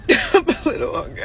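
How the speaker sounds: laughing through the words; half-laughing, breathy with a giggle. Real, not acted.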